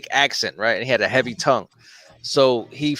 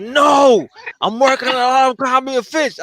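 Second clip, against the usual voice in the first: put-on Spanish accent; 10 semitones higher, 5 dB louder than usual. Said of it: "he had his thick Spanish accent".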